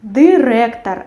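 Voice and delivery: director with hard, rolled R, "dy-REK-tar"; hard consonants in director, trill the R; Belarusian pronunciation. Shown as a demonstration. Teacher compares it with Spanish, Belarusian sound. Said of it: "in Belarusian we have director".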